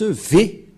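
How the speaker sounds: Vav sounded as V; V pronunciation. Shown as a demonstration. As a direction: give the letter as a clear V. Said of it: "on le prononce".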